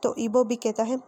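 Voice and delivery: ordinary delivery, nothing marked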